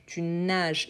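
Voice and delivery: "nages" ending in a soft zh, spoken softly; soft j sound. Shown as a demonstration. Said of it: "Il a le son de j".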